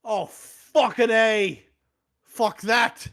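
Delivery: high, loud and drawn out; hammed-up shocked outburst; mock startled yell. Samwise sees Frodo vanish and yells high and slow. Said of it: "And Samwise goes".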